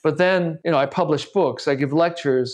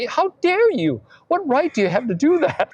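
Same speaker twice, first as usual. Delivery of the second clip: angry father; 10 semitones higher than usual. Retold or imitated. Father yelling on the phone.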